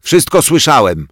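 put-on boy yelling from behind the board; shout. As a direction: yell it out from hiding. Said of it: "wrzasnął zza tablicy Bodzio".

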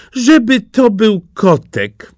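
high, loud princess's wish, drawn out; excited cry. A narrator's reading. Princess hoping for a kitten in her gift, excited cry. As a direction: call out slowly in a high, eager voice. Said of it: "zawołała".

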